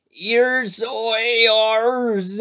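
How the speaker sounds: high, loud words mumbled round a mouthful; mouth full of acorns. A narrator's reading. Tigger, mouth stuffed with acorns, answering Pooh. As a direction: talk through crammed acorns. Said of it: "After a long munching noise".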